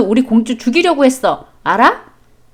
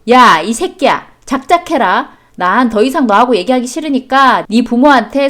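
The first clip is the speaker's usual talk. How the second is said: furious outburst. Acted. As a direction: let the rage burst out at her husband, dragging the words. Wife explodes at husband in quarrel.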